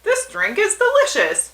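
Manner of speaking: high, loud character voice; hammed-up bar customer. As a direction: call it out high and loud, dragging out the last line. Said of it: "and the guy says".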